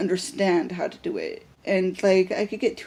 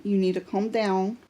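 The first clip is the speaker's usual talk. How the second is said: reassuring. Retold or imitated. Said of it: "and I go".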